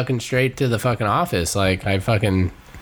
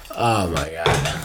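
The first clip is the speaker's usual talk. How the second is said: pained groan; 5 semitones lower, much slower than usual. Real, not acted. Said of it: "That hurt".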